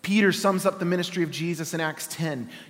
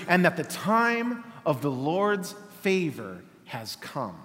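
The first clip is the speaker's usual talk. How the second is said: measured, dignified Bible reading; scripture reading. Acted. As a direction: read the passage like a sermon text. Reads scripture aloud.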